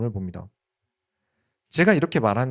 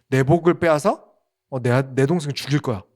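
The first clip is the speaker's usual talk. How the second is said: imitating Esau's rage; 4 dB louder than usual. Esau furious over lost blessing.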